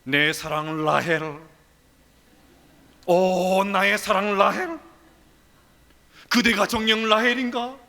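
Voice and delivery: slow, tender call to beloved; hammed-up romantic calling of Rachel; tender lover. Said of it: "수도 없이 라헬을 불렀을 것입니다".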